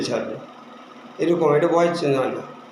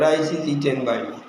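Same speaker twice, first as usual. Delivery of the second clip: slow example read; 4 semitones lower, much slower than usual. Shown as a demonstration. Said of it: "এবং এটা voice change হবে".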